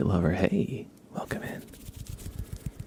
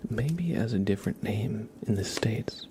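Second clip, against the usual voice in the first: whisper; slower than usual. Real, not acted. Streamer greeting viewers in chat, whispering. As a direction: breathe the words gently.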